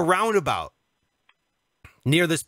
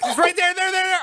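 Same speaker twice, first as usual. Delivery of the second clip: higher, pressing there there there; insistent wife; 12 semitones higher, 4 dB louder than usual. Retold or imitated. Comic imitating his wife urging him to look. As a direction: mimic the wife pointing urgently. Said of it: "she's like".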